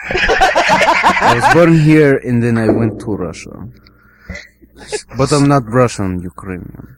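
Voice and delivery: put-on Russian accent; Russian-accented applicant. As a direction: explain yourself with a Russian accent. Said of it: "Russian, Russian accent".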